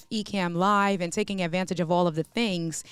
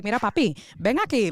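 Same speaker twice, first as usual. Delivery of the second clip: New Yorican; 2 semitones higher, faster than usual. Retold or imitated. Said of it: "don't make the New Yorican come out".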